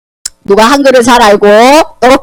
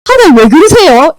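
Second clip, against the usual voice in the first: Job protesting; 2 semitones higher than usual. Acted. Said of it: "이렇게 따졌어요".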